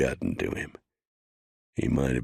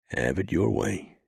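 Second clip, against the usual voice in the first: higher drawling deputy voice; Rio's voice; 8 semitones higher than usual. A narrator's reading. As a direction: repeat it higher, resigned. Rio repeats softly.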